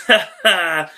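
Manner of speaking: a short amused laugh under the breath; chuckle to himself. Retold or imitated. Commentator chuckling at his partner's remark, amused. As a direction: laugh to yourself at a private joke. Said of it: "J B L laughs to himself and goes".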